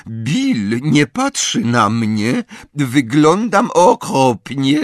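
high, slow, drawn-out wail; moaning dismay. A narrator's reading. Fleur begging Bill over her awful looks, moaning. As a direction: wail slowly and loudly in distress. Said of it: "jęknęła Fleur".

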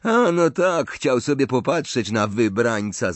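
mocking sneer with a scoffing laugh; Malfoy. A narrator's reading. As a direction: draw out the name in scorn, swooping high. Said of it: "zadrwił Malfoy".

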